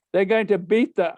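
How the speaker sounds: acted forceful warning; urgent warning. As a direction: imitate a worked-up priest warning a pupil. Teacher warns boy about bullies.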